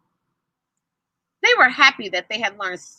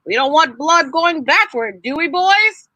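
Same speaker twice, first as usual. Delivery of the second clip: lightly voiced friendly doctor; a hint of a kind doctor teaching boys; doctor's voice; 3 semitones higher than usual. Doctor explaining valves to the boys, lightly voiced. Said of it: "I need to make his voice again".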